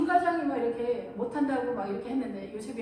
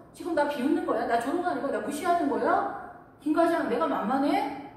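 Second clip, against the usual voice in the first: louder, higher, indignant accusation; accusing boss; 4 semitones higher, 5 dB louder than usual. Retold or imitated. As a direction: throw the blame back at him, offended. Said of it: "뒤집어 씌우면서".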